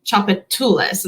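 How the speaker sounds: Chopatulas opening on a plain "ch"; crisp "ch" to start Chopatulas; ch sound. Shown as a demonstration. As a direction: say Chopatulas as chop-uh-TOO-lis. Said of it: "the T C H just makes the ch sound".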